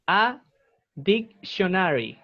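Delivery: "a dictionary" slowly, with a sh in the middle; SH sound demo. Shown as a demonstration. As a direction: model "a dictionary" as dic-sho-na-ry, unhurried. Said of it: "Es como con C H".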